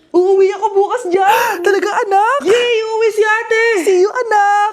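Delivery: loud, happy, teary reunion news; mother and daughter thrilled about the homecoming, teary and loud; joyful tears. Acted. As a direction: let the joy burst out, half crying. News of daughter coming home.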